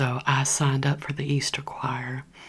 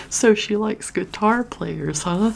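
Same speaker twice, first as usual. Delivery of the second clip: higher, louder, slow smug teasing; teasing guy; 7 semitones higher, 4 dB louder than usual. Retold or imitated. Imagined crush teasing her, higher and slowed, smug and playful. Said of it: "she thought that David was gonna see that post and be like".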